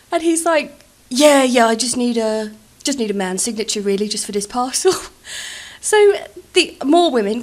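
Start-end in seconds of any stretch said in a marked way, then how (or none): 1.1-4.9 brash insistence. Retold or imitated. Brother insisting on man's signature.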